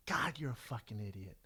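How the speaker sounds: hushed, whispery thought to oneself; softly voiced inner reproach; inner self-scolding. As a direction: scold yourself under your breath. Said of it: "I remember thinking to myself".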